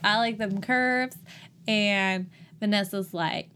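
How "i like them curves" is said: slow, light Southern twang; Southern accent. Acted. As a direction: stretch it out with a slight Southern accent. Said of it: "kind of a Southern accent".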